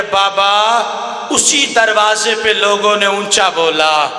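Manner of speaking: high, tearful chanted cry to her father; weeping plea. Acted. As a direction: let the voice break with grief. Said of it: "رو کے مخدومہ کہتی ہے".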